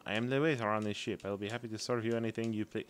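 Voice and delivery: put-on game waiter in a light French accent; mildly put-on French accent; bad French accent. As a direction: read it with a hokey French accent. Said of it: "French accent. You have to say it French".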